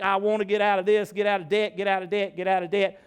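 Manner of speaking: lightly acted desperate chant; mock nagging plea. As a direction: pester God with the same request over and over. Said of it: "I'm like".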